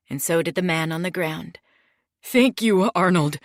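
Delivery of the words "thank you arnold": relieved gratitude. Acted. Relieved thief thanks boss.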